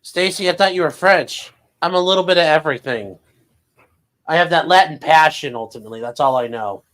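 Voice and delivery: put-on high, loud airhead girl; valley girl voice. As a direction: gush it like a ditzy girl. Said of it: "voiced Stacy quote".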